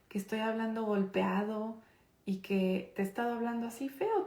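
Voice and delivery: tender apology to her son, softly; calm reassuring mother's voice; soft kind voice. Shown as a demonstration. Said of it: "le digo en voz bajita, bajo mi tono de voz... a un tono amable".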